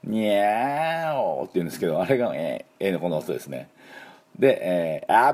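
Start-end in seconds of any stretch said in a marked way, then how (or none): 0.0-1.4 a drawn-out cartoon cat nyaao; playful mock meow; cat meow imitation. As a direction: mew it like Tom the cat. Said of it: "トムの鳴き声".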